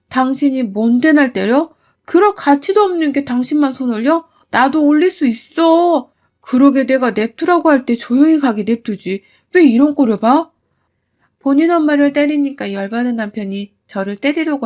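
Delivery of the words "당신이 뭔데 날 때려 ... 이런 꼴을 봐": 느리게 힘주어 맞서기; 싸늘하게 쏘아붙임; 분노의 반격. Retold or imitated. 시어머니와 몸싸움. (시어머니에게 맞서는 며느리)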